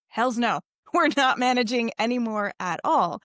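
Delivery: mock-indignant body putting its foot down; firm, emphatic acted refusal; defiant refusal. Exhausted body talks back to its owner, defiant.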